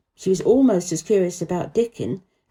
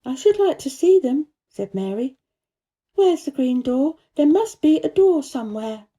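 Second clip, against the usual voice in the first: put-on much higher child voice, insistent; insistent Mary; 6 semitones higher than usual. A narrator's reading. Mary pressing the gardener, high and insistent. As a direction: push for the answer. Mary's voice.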